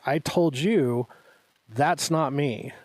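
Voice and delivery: slow, emphatic retold denial; retold insistence. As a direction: spell it out word by word, insisting. Friend insists back, retold.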